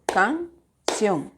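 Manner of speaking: CAN, CIÓN as two clapping beats; split into syllables. Shown as a demonstration. Teacher showing students how to clap canción, syllable by syllable. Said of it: "Ustedes aplauden".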